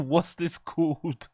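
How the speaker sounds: repeats it through laughter; laughing repeat. Retold or imitated. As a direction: laugh while quoting it. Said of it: "repeating Chris's question".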